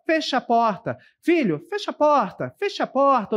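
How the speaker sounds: put-on firm, insistent order to a child; acted order. Shown as a demonstration. Teacher voicing a parent ordering a child, firmly. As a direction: tell your son to shut the door. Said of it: "Ela expressa uma ordem".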